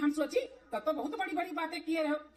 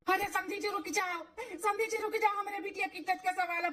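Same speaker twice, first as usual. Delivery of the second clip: raised, higher pleading cry after them; pleading call; 4 semitones higher than usual. Acted. Bride's father begging the groom's party to stay, pleading call.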